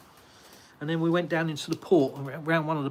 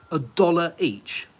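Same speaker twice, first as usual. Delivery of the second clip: incredulous; 4 semitones higher, 6 dB louder, slower than usual. Real, not acted. Incredulous at egg price.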